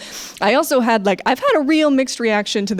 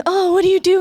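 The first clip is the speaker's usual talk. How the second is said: much higher, louder mock gushing question; envious gush; 10 semitones higher, 3 dB louder than usual. Scene: she asks her chic French roommate her secret, gushing high. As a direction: squeal it like an envious fan. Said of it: "I was always like".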